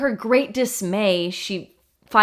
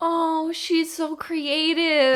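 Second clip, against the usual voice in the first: amused cooing; 7 semitones higher, much slower than usual. Real, not acted. Listener reacts with admiring mock sympathy.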